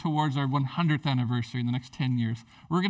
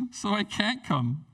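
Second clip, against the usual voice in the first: dismissive excuse; 3 semitones higher, slower than usual. Retold or imitated. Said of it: "that's super rude".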